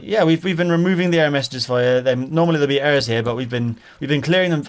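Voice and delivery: lightly imitated Indian-accented caller. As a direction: explain it in a mild mock Indian accent. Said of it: "he definitely had an Indian accent".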